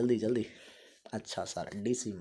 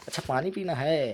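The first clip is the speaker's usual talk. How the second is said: mock eager; 5 semitones higher, 4 dB louder than usual. Teacher acting a thirsty person.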